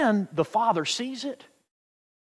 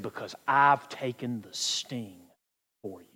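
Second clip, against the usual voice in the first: hushed, unhurried fatherly comfort; tender reassurance; 8 semitones lower, 6 dB quieter than usual. Acted. Father shows son the stinger, tenderly reassuring.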